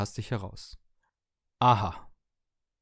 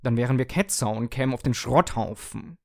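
grumpy; 2 semitones higher, 6 dB louder than usual. Acted. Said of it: "erwiderte die Kaffeemaschine mürrisch".

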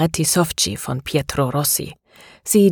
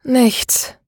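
sighing; 7 semitones higher than usual. Acted. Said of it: "seufzte Maria".

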